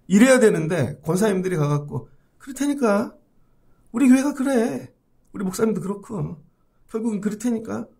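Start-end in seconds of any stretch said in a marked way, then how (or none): 2.4-7.9 grumbling elder. Retold or imitated. Complaining deaconess.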